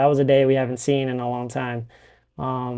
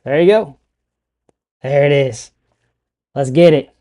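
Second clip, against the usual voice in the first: excited; 6 dB louder than usual. Real, not acted. Mic fixed, cheering it on.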